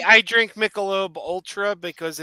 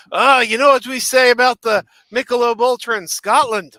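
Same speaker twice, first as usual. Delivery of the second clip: lightly attempted Scottish accent, higher and louder; 5 semitones higher, 10 dB louder than usual. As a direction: imitate a Scottish friend with an amateur accent. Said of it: "but in his Scottish accent".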